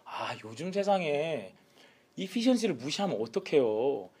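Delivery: soft, drawn-out mild protest; lightly acted, wheedling justification; mock excuse-making. Saul excusing himself to Samuel, softly protesting.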